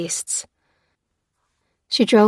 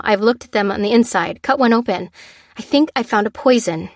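anxious ramble; 3 semitones higher, 4 dB louder than usual. Acted.

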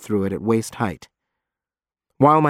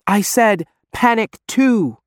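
insistent shout; 10 semitones higher, slower than usual. Acted. Janice insisting on the radio.

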